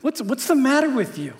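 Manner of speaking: dude-style disbelief; exasperated rebuke. Retold or imitated. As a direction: snap at him like he's lost his mind. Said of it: "He's saying".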